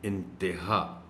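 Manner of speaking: انتہا said as one smooth word, quietly; correct pronunciation. Shown as a demonstration. Teacher repeats انتہا correctly, softly. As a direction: say انتہا plainly, run together. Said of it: "اس کا درست تلفظ ہے".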